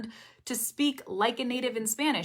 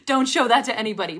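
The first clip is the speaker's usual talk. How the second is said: embarrassed laughter; 7 dB louder, faster than usual. Real, not acted. Embarrassed after her bad accent demo.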